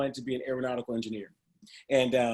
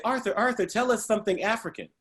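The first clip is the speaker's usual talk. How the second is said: classmates asking; 8 semitones higher than usual. Retold or imitated. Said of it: "every day they would say".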